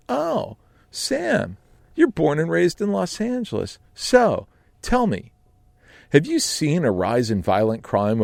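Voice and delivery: bright, nosy interviewer voice; imitating Joe. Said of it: "he goes".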